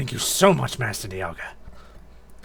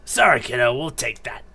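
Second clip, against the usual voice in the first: character voice; 2 semitones lower, 5 dB louder than usual. Acted. Bully to his victim while stealing the relic fragment, taunting villain voice. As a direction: sneer it like a small-time crook. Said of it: "What's his voice?".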